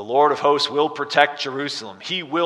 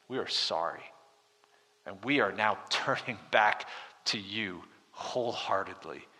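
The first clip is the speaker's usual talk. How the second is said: prayer of repentance; 3 dB quieter than usual. Acted. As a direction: pray it humbly, almost under the breath.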